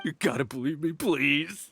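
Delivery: prisoner pleading with his interrogator, cowed and desperate; broken plea. Acted. Prisoner begs to be believed.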